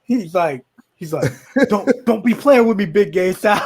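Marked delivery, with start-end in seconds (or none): 1.7-3.6 slightly raised, mock indignant; retold angry warning. Fuming Cheetah warns Sal in the back seat, mock anger. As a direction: warn him off in mild mock anger. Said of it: "so Cheetah's all fucking angry".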